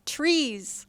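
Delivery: loud one-word chant; staccato cheer. Shown as a demonstration. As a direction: call it out, one word at a time. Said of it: "I wanna hear really loud".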